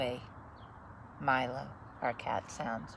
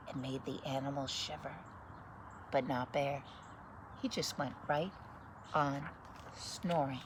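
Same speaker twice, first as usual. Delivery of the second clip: put-on lively read-aloud voice for children; story narration. Reading a picture book to children, lively story narration. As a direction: read it like bedtime story time.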